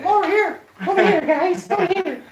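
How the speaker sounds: high, loud call across the room. Real, not acted. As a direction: wave the guests over by voice. Calling guests into the room.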